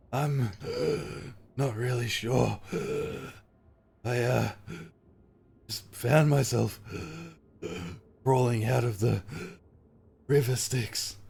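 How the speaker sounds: a hint of a dazed Lulu; Lulu's voice. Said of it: "Lulu says".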